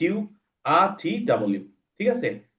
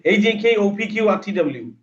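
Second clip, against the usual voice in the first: louder; 6 semitones higher, slower than usual. Shown as a demonstration. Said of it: "আবার জোরে".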